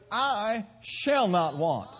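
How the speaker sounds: "shall" pressed, slow and final; slow scripture declaration; slow emphatic. Shown as a demonstration. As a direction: lay out "I shall not want" word by word. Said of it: "No, he says".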